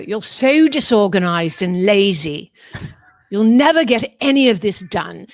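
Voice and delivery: mock motherly telling-off, emphatic; scolding mother. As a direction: imitate a critical mother laying down the verdict. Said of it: "sounds like my mother".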